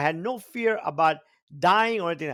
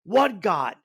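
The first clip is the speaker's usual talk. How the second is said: raised, heated retelling of a shouting match; irate rant at mom; 4 semitones higher than usual. Retold or imitated. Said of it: "I got so irate".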